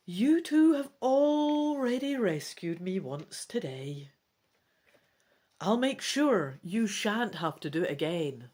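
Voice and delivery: gentle dragon voice promising help; a hint of a kind dragon; lightly voiced reassuring dragon. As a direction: reassure your friends in character. Defal reassures the elf.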